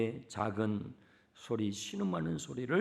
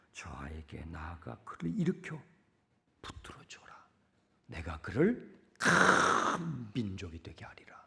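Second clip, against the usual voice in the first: whispered divine promise; 5 semitones lower than usual. Acted. God speaking to Hagar.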